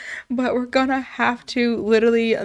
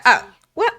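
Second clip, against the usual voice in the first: shocked mom; 10 semitones higher, 6 dB louder than usual. Acted. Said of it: "And she's like".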